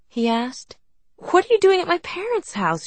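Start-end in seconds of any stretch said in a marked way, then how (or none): 1.1-2.8 higher and louder demand. A narrator's reading. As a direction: press him hard for an answer. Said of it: "she demanded".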